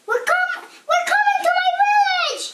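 high-pitched alarmed shout; urgent high cry; Noddy. A narrator's reading. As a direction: shout it in a fright from a speeding car. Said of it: "shouted Noddy".

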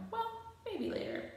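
high, soft hedge; timid squeak; nervous. A narrator's reading. Emilio hedging nervously.

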